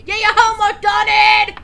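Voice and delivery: scolding. Acted. Scolding parent role.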